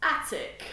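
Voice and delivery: "Attic" in a hammed-up English accent; exaggerated English pronunciation. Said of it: "I'm using the English word".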